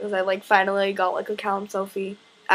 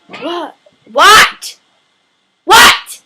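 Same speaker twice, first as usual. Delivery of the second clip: rising startled what; 8 semitones higher, 16 dB louder, much slower than usual. Retold or imitated. Luke reacting to smack.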